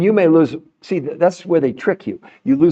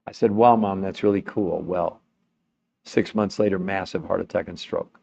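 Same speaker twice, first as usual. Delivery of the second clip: sad; 6 semitones lower, 4 dB quieter than usual. Real, not acted. Retelling mother's death.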